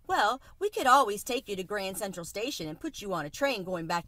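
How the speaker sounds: cheerful Tucker Mouse, lightly voiced; lightly voiced city mouse. Tucker Mouse introducing his friend to the cricket, lightly voiced mouse. Tucker coaxes Chester to stay.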